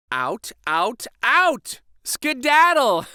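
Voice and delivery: rising to a loud, high Skedaddle; shooing shout. A narrator's reading. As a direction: chase them out, building up. Shooing animals out.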